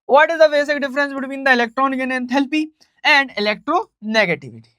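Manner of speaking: slow, word-by-word English dictation. Shown as a demonstration. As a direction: read it out so students can copy it down. Dictating exam question slowly. (धीमे-धीमे प्रश्न लिखवाते हुए)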